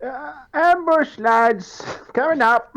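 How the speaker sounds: high, loud call to the lads; rally the party, urgent; urgent warning. Acted. Character warns party of ambush.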